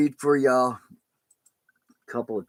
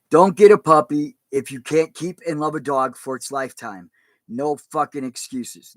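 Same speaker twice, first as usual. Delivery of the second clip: reading aloud; 2 semitones higher, 6 dB louder than usual. Acted. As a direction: read out a plea to puppy buyers. Reads shelter officer's letter.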